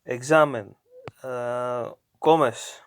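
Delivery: "Examen" stressed on XA, "comes" on CO; stress on second-to-last syllable. Shown as a demonstration. Teacher showing the stress rule, penultimate syllable stressed. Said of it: "the emphasis goes to the second to last syllable".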